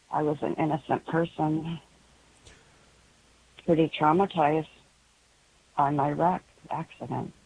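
halting, pained recollection with long pauses; real hurt, phrase by hesitant phrase. Real, not acted. Caller recounts past trauma to radio host, pained and halting. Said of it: "I can hear the pain in your voice".

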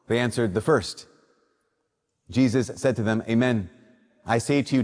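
measured, solemn proclamation of scripture; Gospel reading. Acted. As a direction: liturgical reading voice.

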